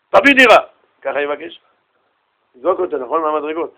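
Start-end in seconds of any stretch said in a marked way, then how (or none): 0.1-0.6 short, higher-pitched blunt demand. Shown as a demonstration. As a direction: demand it with no courtesy at all. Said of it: "איך הוא יבקש מהעשיר?". (דרישה בוטה, בלי נימוס)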